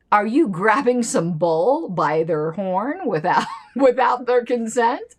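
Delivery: laughing through the question, slowed down; amused, slow, laughing question. Real, not acted. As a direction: giggle out the joke about consent. Laughing at own joke.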